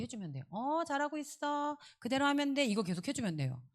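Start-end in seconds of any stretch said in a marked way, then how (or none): 0.5-2.7 reassuring okay. Shown as a demonstration. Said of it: "그냥 계속 그 확인하는 거 오케이". (높고 부드럽게, 천천히 안심시키기)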